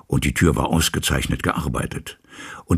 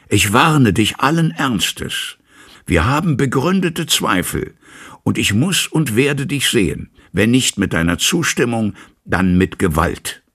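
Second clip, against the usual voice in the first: stern loud warning; 6 semitones higher, 3 dB louder than usual. A narrator's reading. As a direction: threaten him through the door. Lawyer threatens through locked door. (ernste, laute Drohung, langsam)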